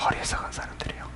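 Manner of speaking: hushed, barely voiced judgement; whispered verdict. Real, not acted. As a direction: drop suddenly to a whisper. Preacher answers own question.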